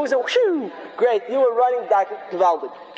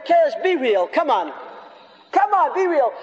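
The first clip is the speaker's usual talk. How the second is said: raised, high, urging voice; mock scream; 4 semitones higher than usual. Choir of sins tells the penitent to be real, mock screaming. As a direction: badger him like a nagging inner critic. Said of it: "screaming so loudly".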